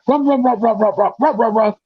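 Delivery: imitating barking. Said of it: "to barking".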